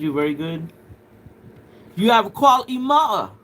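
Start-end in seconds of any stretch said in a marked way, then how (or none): 2.0-3.3 high, loud laughing words. Real, not acted. Laughing at a viewer's comment.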